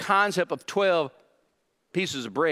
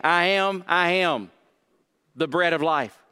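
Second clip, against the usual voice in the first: "I am" stressed twice, then a pause and a fall. Shown as a demonstration. Preacher quoting Jesus to the congregation, stress on I AM. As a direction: press on each "I am", easing off for "the bread of life". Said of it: "The emphasis is on "I am".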